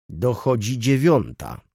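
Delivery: "Dochodzi dziewiąta" said slowly, each word leaned on; slow, weighted words with meaning behind them; pointed emphasis. A narrator's reading. Old clerk correcting the latecomer, slow and pointed. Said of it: "ze szczególnym naciskiem".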